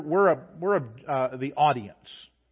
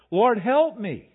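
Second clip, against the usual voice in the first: higher, louder, slow desperate plea; higher, louder panicked cry of help me; 6 semitones higher, 6 dB louder, slower than usual. Retold or imitated. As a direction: beg the Lord as the army closes in. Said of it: "We can imagine".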